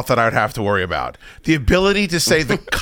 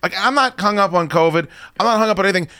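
higher, fast exasperated complaint; exasperated rant; 7 semitones higher, faster than usual. Real, not acted. Griping to friends about the shared sides, exasperated and fast. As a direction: vent it fast like you can't believe it.

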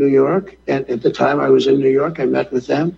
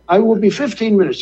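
put-on high-pitched French-accented promise; mock French accent; 5 semitones higher than usual. French leader promising a quick callback, mock French accent. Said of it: "he's doing his voice impressions".

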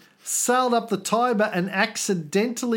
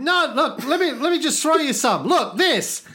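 mock frantic sailor; 7 semitones higher than usual. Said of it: "still the quoted sailor".

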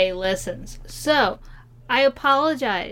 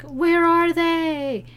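puzzled listener; 7 semitones higher, much slower than usual. Retold or imitated. Imitating missing listener.

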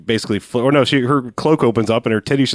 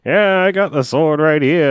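put-on old prospector; 5 semitones higher, slower than usual. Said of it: "He's an old prospector".

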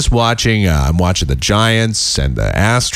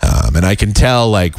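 ordinary talk

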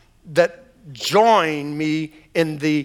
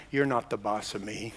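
quiet declaration; 9 semitones lower, 11 dB quieter than usual. Shown as a demonstration. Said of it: "just say to them".

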